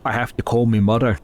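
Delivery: put-on a deliberately awful British accent; mock British accent, barely British; worst British accent. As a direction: mangle a British accent to tease. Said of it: "I like to do the absolute worst British accent".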